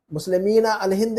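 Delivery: मुस्लिमीन अल हिंद with "meen" sounded; unlinked मुस्लिमीन, n pronounced; noon wrongly kept. Shown as a demonstration. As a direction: separate मुस्लिमीन from अल. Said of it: "नहीं कहेंगे, नून गिरा देंगे".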